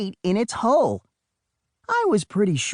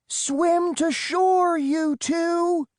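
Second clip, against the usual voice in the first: much higher, slow firm order; commanding; 14 semitones higher, much slower than usual. Acted. Storm orders the twins to swim to shore, firm command. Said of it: "she told us".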